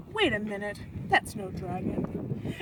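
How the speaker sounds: lightly voiced suspicious Viking; gruff Viking. Viking sees through trick.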